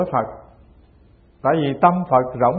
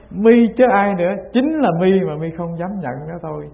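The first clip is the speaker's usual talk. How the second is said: raised, insistent retort; acted rebuttal; 4 semitones higher than usual. Master answers the monk's denial, acted insistent rebuttal. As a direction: press the accusation home, half-acted.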